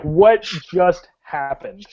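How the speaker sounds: slow, stunned creature reaction; lightly acted disbelief; taken aback. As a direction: voice mild bewilderment, spacing out the words. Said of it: "it's taken aback, like".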